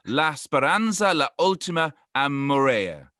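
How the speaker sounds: slow, careful Italian phrase from a British speaker; romantic Italian attempt. Shown as a demonstration. British podcaster tries the Italian proverb, romantic Italian accent. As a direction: savour the Italian words like a tourist trying hard. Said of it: "that's so romantic the way you said it".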